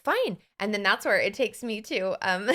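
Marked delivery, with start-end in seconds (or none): 0.0-0.4 airy fine. Retold or imitated.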